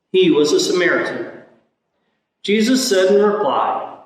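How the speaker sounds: solemn scripture reading from the pulpit; Gospel reading. Acted. Priest proclaims the Gospel reading.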